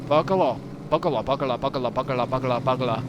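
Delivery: rapid-fire Scottish-accented babble; put-on Scots, chanting the word. Shown as a demonstration. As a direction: repeat it as a Scottish tongue-twister. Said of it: "with a Scottish accent".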